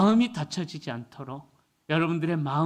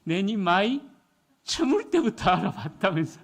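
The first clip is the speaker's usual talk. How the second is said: Gyeongsang husband. Retold or imitated. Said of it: "경상도 남편이 하는 말이".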